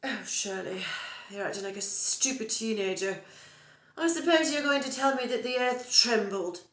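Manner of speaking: lightly voiced prim friend scoffing; disapproving friend Jane. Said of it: "Jane does".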